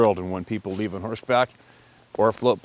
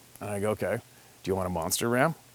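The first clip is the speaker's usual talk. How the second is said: plain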